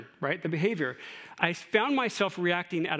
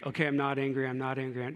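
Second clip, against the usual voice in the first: mock denial; 5 semitones lower, 3 dB quieter, faster than usual. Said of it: "No, that's not what I'm talking about".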